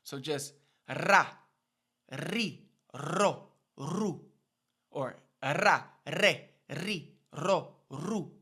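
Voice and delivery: ra ri ro ru with a trilled r; rolled r. Shown as a demonstration. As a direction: roll the r on each syllable. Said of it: "roll the R without needing that consonant".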